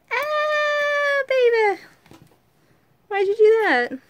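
high, loud startled outcry; startled cry. Real, not acted. Mother crying out as her toddler makes a mess. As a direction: yelp at the spill. Child spills, mother cries out.

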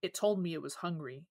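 imitating a creepy kid's dead, flat monotone. Clerk retelling the creepy peanut-butter kid, in a dead flat voice. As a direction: say it like a little serial killer, no feeling at all. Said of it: "says in a dead, flat voice".

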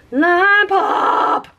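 excited squeal. Shown as a demonstration. Naming the color twice.

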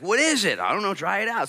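loud, high bewildered crowd voices; puzzled mock crowd. Israelites puzzled by manna.

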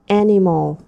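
Animal with AN stressed; stress on first syllable. Shown as a demonstration. Teacher modelling stress for the class, first syllable stressed. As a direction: hit the first part of Animal. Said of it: "Ta nhấn phần một".

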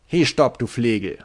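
scolding shout. Acted. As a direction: shout him down, then scold. Tarpaulin scolds the drunk Bein.

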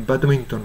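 "バドミントン" as English bad-m'n-n; clipped-off American ending on "バドミントン"; American reduction. Shown as a demonstration. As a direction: stress the first syllable of "バドミントン", swallow the rest. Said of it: "バドミントンとは言いませんね".

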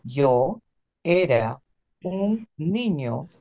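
yo era un niño, word by word, slow. Shown as a demonstration. Teacher to class: read it slowly, word by word. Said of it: "Let's go a bit slower".

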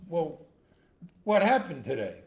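impatient big guy. Acted. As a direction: press him as the bar bully. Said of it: "the big guy".

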